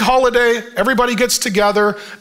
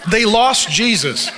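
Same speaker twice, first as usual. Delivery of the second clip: laughing repeat; slower than usual. Real, not acted.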